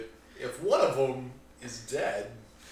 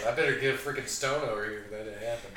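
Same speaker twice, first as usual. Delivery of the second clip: character voice; 2 semitones lower, much faster than usual. Acted. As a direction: rattle it off fast in character. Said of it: "He just compelled you for that voice".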